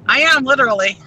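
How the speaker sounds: echoey, like talking from a tunnel; phone call from inside a tunnel; hollow tunnel sound. Real, not acted. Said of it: "You sound like you're in a well".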